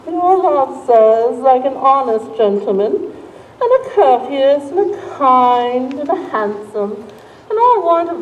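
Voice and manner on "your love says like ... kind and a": slow, drawn-out teasing; slow teasing drawl. Acted. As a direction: drag it out to tease her. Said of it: "How oddly thou repliest".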